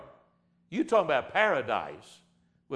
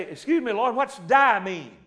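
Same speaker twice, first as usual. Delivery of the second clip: mock naive Adam; 4 semitones higher, 4 dB louder than usual. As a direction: play a baffled Adam asking God innocently. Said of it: "Now I'm to say".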